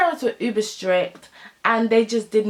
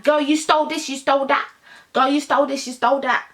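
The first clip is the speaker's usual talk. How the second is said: higher-pitched imitation of a call-out; mock accusation; 4 semitones higher than usual. Imitating someone calling out a friend on Twitter, mock accusing. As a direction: rattle off the charges in mock accusation.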